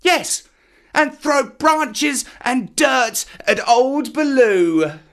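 put-on very high, defiant childish yell; high, excited brat boasting; shouting boy. A narrator's reading. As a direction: crow it loudly to taunt your teacher. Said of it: "shouting at the top of his voice".

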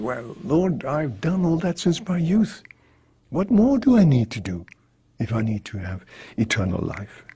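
a hint of puffed-up pride; chest-out boast, lightly played; proud. Young man telling Jesus he has kept everything, mildly proud. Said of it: "very proudly he puts out his chest".

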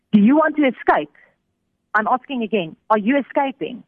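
high, insistent soldier's demand; retold interrogation. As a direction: press the question like an armed interrogator, mildly acted. Soldiers interrogate him at his door.

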